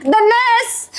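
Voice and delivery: tearful outburst at her brother-in-law; choked-up cry. Real, not acted. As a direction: voice breaking into a sob mid-rebuke. Angry mother-in-law dispute, crying.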